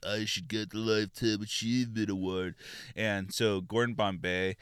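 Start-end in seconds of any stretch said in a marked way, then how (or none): 0.1-2.5 a lightly voiced smug new coach; hint of a self-important coach; mild take-off of the smug coach; mullet coach voice. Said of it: "and he talks like this".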